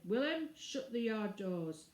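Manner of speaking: curt, slow order to the stable hand; short command. Acted. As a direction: clip the order out, slowly. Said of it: "when he said shortly".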